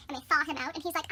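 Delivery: ordinary talk, nothing marked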